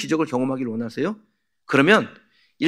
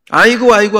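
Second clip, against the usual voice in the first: mock lament, higher and louder; imitated funeral wailing; 5 semitones higher, 7 dB louder than usual. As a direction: act out a hired mourner's loud wail. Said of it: "하고 곡을 하는 겁니다".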